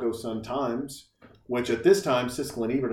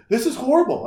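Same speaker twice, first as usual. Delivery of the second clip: imitated crying child; 11 semitones higher, 5 dB louder than usual. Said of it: "She starts crying and she's like".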